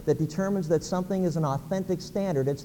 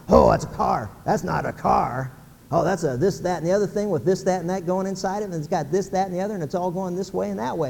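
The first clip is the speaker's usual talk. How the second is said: excited car buff. Retold or imitated. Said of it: "watching the guy on Home Improvement, Tim Allen".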